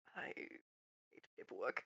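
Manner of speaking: very quiet, hushed, breathy, almost whispered murmur. Voicing a character looking at a mountain of paperwork: very quiet. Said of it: "he just kind of very quietly goes".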